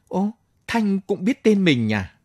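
a high, bright exclaim of surprise; pleasantly startled he's known; surprised. Acted. Soldier surprised the wife knows his name, high exclamation.

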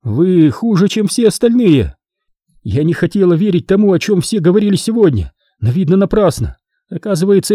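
high-pitched bitter accusation; impassioned young woman's reproach; hateful. A narrator's reading. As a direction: accuse him with hatred, pitched well up. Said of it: "с ненавистью посмотрела на Болона".

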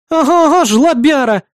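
high, loud scornful jeer; mock him with a loud high jeer; scornful snort. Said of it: "фыркнула она".

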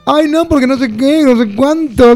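high, affected upper-class drawl; mock the posh Barrio Norte kids; imitating a snooty rich kid talking with a bean in her mouth; posh pijo voice. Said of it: "parece que tiene una chaucha en la boca".

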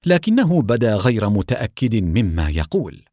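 plain reading voice

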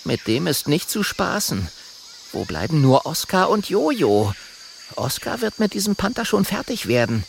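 high-pitched inner voice; high little dragon musing; worried little dragon. Acted. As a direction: think aloud as the small dragon.

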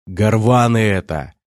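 slow sulky grumble; grumbling. Acted. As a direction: mutter it sulkily, slowly. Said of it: "буркнул". (обиженно буркнуть)

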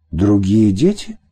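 mild horrified disbelief; a touch of shock in the question; understated appalled asking. Acted. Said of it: "ужаснулась я".

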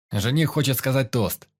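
calling over arguing guests; loud announcing call. Acted. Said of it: "Мне пришлось повысить голос".

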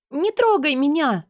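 high, loud, frantic shout; hysterical scream. A narrator's reading. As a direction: scream to make him let go. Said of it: "кричу я, как истеричная". (истеричный крик)

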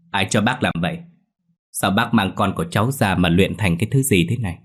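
angry. Acted. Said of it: "Hiền tức giận nói".

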